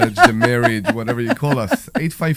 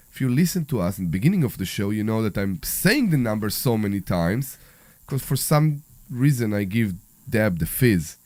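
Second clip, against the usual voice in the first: sick voice; 5 dB louder than usual. Real, not acted. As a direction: talk through a bad cold. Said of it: "With your sick voice".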